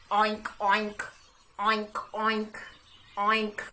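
low loud pig voice; pig oinks. Acted. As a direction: oink like a jolly pig. Host voices Mister Pig.

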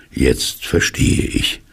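slow, drawn-out realisation; stretched-out, thoughtful words; dawning realisation. Acted. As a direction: let it sink in as you say it. Pooh realises slowly in story.

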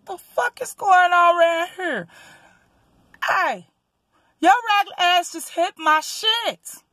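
retold getting loud. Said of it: "I'm starting to get a little loud".

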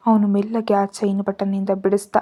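plain reading voice

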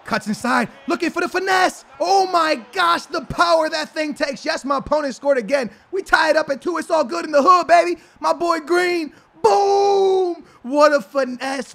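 high, loud commentator shouting over the goal; hyped play-by-play. Acted. Streamer commentates his own goal, high excited shouting. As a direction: call the goal like a stadium announcer.

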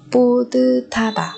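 "pu tư tha tà" with aspirated "tha"; correct linked reading. Shown as a demonstration. Teacher confirming the sound change, linked "pu tư tha tà". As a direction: link it smoothly as "pu tư tha tà". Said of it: "mà là tư tha".

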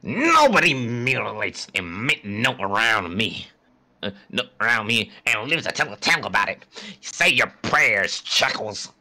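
a hint of a menacing villain; mock villain threat.

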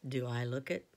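low, gentle lion; deep lion voice. Acted. Aslan's voice.

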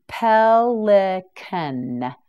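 Pelican stretched out very slowly; very slow, syllable by syllable. Shown as a demonstration. Teacher modelling Pelican very slowly for learners. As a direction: pull Pelican apart syllable by syllable. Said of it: "teacher models the word slowly".

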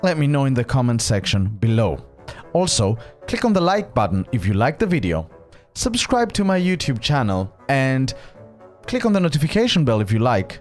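rapid-fire call to action; fast outro read. Acted. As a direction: rattle off the outro quickly.

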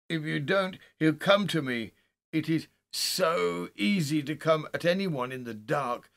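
high, loud, desperate pleading; broken-voiced terror. A narrator's reading. Haldane begging Winston for light in the dark, desperate and terrified. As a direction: build from pleading to a frantic cry. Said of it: "his voice broke, as a boy's does".

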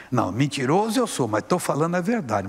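insist, irritated, as the demon; mild angry demon retort. Retold or imitated. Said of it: "mas bravo comigo".

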